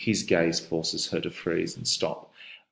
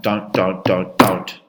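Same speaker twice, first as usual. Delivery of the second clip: cry; 7 dB louder, slower than usual. Shown as a demonstration. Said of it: "she cried".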